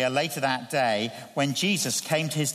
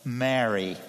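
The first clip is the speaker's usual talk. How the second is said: tender call; 6 semitones lower than usual. Retold or imitated. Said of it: "That single word touched a spring".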